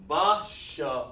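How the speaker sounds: BA and SHA each sounded out alone; separated syllables. Shown as a demonstration. Teacher asks students if it is correct, syllables separated. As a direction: leave a clean break between BA and SHA. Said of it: "gotta have some break in your tone".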